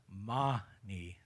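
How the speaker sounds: MANI drawn out as "MAH-nee"; Tibetan pronunciation. Shown as a demonstration. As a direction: sound out Mani slowly in two syllables, MAH-nee. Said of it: "This is a Tibetan pronunciation".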